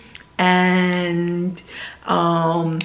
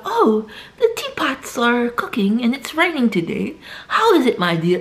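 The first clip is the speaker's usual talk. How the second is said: higher, hammed-up British small talk; mock British accent; 4 semitones higher than usual. British person chatting about teapots and rain, mock British accent. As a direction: parody a posh British soap character. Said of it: "but British people, they're like".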